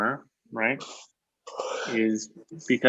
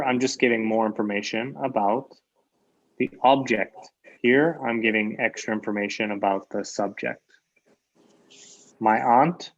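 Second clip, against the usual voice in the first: ordinary talk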